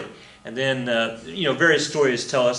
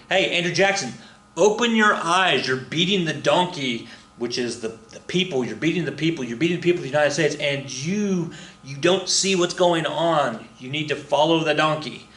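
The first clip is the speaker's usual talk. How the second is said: mock scolding crowd; 4 semitones higher than usual. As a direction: lecture Jackson like a pleading crowd. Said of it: "they're saying".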